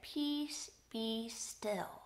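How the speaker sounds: hushed, deliberate command; soft calming. Retold or imitated. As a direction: quietly settle the waves. Retelling Jesus calming the storm.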